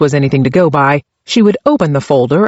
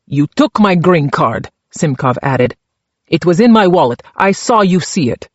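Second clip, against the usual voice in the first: put-on Czech accent. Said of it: "his accent so thick".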